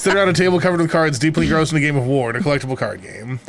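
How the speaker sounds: brisk storyteller read; story narration. Acted.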